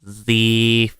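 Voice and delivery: strange drawn-out alien sound. Pretend. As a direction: say it like a sci-fi alien. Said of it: "if you can think of an alien voice".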